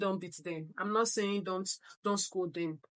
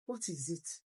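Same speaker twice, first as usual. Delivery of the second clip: gentle coaxing; 5 semitones lower, 9 dB quieter than usual. Retold or imitated. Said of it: "She was rubbing his back".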